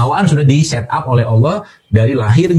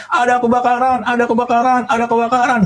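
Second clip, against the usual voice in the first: mock fire-alarm yell; 11 semitones higher than usual. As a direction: imitate a crowd crying fire, high and stretched out. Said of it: "semua orang teriak panjang-panjang, besar-besar, gede-gede, keras-keras". (pura-pura teriak kebakaran, melengking panjang)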